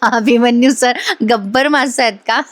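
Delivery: giggling through the question; laughing. Real, not acted. Host laughing at the fish joke, giggly. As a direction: laugh as you ask it. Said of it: "हसायला आलं मला जरा".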